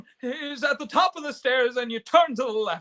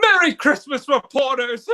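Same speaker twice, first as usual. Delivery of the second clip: jubilant; 5 dB louder than usual. Acted. George greets reporters, euphoric.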